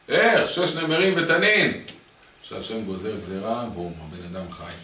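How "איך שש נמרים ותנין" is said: high, loud astonished exclamation; how-on-earth outburst; incredulous outcry. Acted. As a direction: cry it out in disbelief, drawing the words out. Incredulous exclamation amid a parable.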